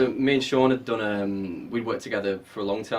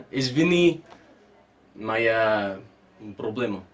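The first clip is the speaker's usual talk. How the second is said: Russian speaking; slower than usual. Shown as a demonstration. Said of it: "your Russian accent".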